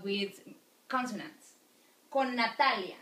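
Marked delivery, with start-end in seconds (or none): 2.1-3.0 Con Natalia with one long held n. Shown as a demonstration. Teacher to students, showing the long linked n. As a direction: hold the n between Con and Natalia. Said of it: "sounds like a long consonant".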